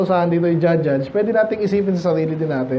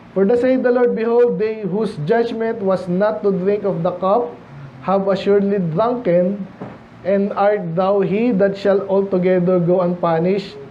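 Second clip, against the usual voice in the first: slow, deliberate Bible reading; scripture reading; slower than usual. Acted. Preacher reading verse to the congregation, slow and solemn. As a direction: read the verse slowly and solemnly. Reads Jeremiah verse aloud.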